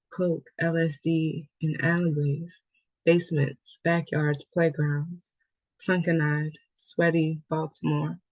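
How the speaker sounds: measured poem recital in short, paused phrases; poetry reading. Acted. Poet reading her poem about Baltimore to an online audience, measured recital. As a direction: read it as a poem, evenly, phrase by phrase. Reads own poem aloud.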